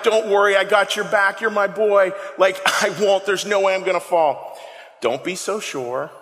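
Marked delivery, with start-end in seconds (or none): 0.0-4.6 mildly emphatic reassurance; big emphatic. Acted. Peter promising Christ he won't fall, emphatic. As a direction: confidently vow to have his back. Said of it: "this big emphatic, like".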